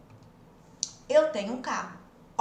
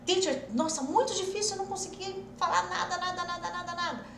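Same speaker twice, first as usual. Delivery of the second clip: whiny student; 7 semitones higher than usual. Pretend. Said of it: "É ir treinando".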